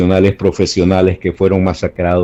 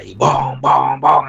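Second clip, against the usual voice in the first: drum imitation; 5 semitones higher, much slower than usual. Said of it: "hacía un gran ruido".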